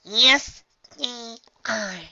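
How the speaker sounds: sharp high retort; growled. Acted. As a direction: snap back angrily. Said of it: "Dinky growled".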